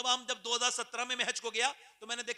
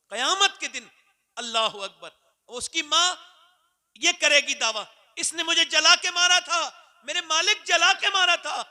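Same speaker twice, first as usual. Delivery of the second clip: high, loud mother's plea to God; impassioned preaching; 8 semitones higher, 13 dB louder than usual. Acted. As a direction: cry out the accusation. Mother's complaint on judgment day. (क़यामत के दिन माँ की ऊँची फ़रियाद)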